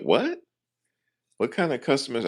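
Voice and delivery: very high, startled imitation of mom; shocked mother. Mom hearing the agent cuss, very high astonished voice. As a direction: squeak it out like a scandalized mother. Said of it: "It's like".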